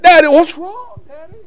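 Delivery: put-on high, puzzled child's voice; little girl asking. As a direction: plead with Daddy in a high girlish voice. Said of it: "She said".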